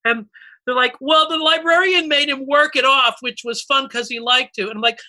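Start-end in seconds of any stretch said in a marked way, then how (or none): 1.0-4.6 put-on kid explaining. Kid explains cartoon plot.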